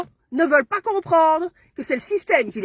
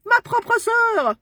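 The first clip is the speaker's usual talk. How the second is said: much higher and very slow, dragging it out; bitter outcry; 9 semitones higher, much slower than usual. Real, not acted. Woman on her live crying out her sister's betrayal. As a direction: wail it out in disbelief.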